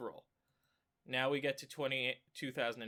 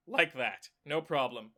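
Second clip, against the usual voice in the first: voice crack; 4 dB louder than usual. Real, not acted. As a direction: voice cracking on a word. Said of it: "Ooh, voice crack".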